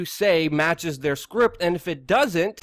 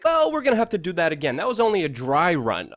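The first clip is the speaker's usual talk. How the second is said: quick, higher-pitched brush-off; mock breezy producer; 3 semitones higher, 3 dB louder than usual. Producer telling the guest to redo it, mock breezy. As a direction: imitate a producer glossing over it. Imitates producer excusing the fake take.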